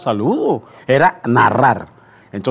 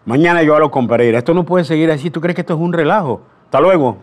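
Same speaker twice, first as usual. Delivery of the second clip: fast, louder scolding, mildly imitated; angry official; 5 semitones higher, 4 dB louder, faster than usual. Radio chief scolding the boy on the phone, fast imitated anger. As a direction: retell the boss's telling-off, fast and cross. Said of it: "Te, te habla Tomás Alberto Cupa".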